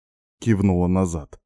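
ordinary delivery, nothing marked

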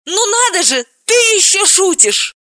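very high, loud astonishment; amazed exclamation. A narrator's reading. Galina amazed that her friend jokes, very high. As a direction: gasp it in disbelief. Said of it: "Галина воскликнула".

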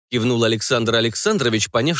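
plain reading voice

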